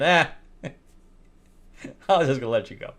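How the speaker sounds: slow, laughing mimicry; mock her line while laughing.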